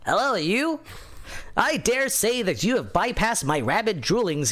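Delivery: nasal nerd reading with big swoops. Acted. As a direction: read it like a pompous nerd. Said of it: "I'm gonna do this in my nerd voice".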